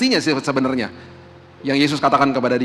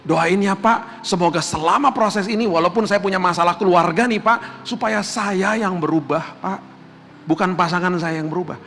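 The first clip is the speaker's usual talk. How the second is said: humble, sincere plea; 3 semitones higher than usual. Retold or imitated. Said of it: "hanya sepuluh persen yang ngomong gini".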